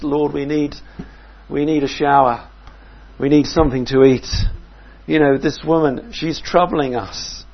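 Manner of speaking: hungry travellers begging to move on; weary disciples. Retold or imitated. Tired disciples pleading with Jesus.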